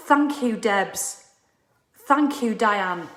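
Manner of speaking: slow, sincere thank-you to each name; slow, earnest gratitude. Shown as a demonstration. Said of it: "truly mean it".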